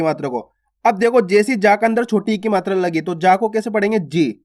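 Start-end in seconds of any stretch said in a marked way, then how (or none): 4.0-4.4 जी said with a short, quick i; जी kept brief, vowel not drawn out. Shown as a demonstration. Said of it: "उच्चारण जल्दी से करना है".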